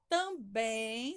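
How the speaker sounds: Também with a drawn-out final bém; stress on last syllable. Shown as a demonstration. Teacher helping pupils find the strong syllable, Também stressed on bém. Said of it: "sublinha o bem".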